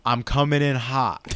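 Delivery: all-caps shout. Acted. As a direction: belt it like you're falling fast. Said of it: "Ham in all caps".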